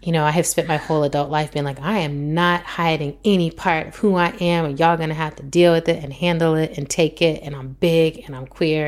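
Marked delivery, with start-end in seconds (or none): 1.8-8.9 loud, emphatic self-assertion; defiant declaration. Retold or imitated. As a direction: declare it firmly, punching the key words. Declaring a lifelong defiant stance.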